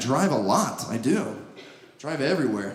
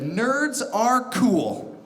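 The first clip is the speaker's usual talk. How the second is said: slow deadpan reading; 4 semitones higher, much slower than usual. Acted. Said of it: "a shirt that said".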